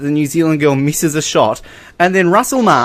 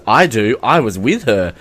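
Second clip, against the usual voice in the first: creepy interviewer; 5 semitones lower than usual. Retold or imitated. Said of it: "this is said so creepily".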